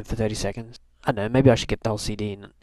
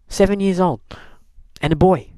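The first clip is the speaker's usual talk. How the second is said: higher, louder, amused disbelief; incredulous; 8 semitones higher, 5 dB louder than usual. Real, not acted. Disbelief at the boy's antics.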